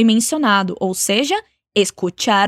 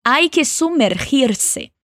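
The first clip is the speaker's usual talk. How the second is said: slow, carefully spaced model phrase; slow teaching model; much slower than usual. Shown as a demonstration. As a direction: say it slowly for learners to repeat. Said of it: "Então vamos lá".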